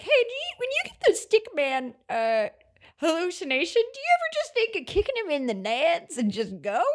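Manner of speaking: put-on high-pitched, chatty kid voice; high, casual mock-teen chatter; kid comparing notes. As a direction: play an eager kid swapping tips. Kids comparing notes, acted out.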